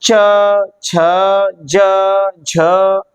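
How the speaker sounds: च छ ज झ sounded one by one with the tongue; slow letter-by-letter demo; palatal consonants. Shown as a demonstration. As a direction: spell out च छ ज झ for the class. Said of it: "जीभ के माध्यम से इन्हें बोला जाएगा".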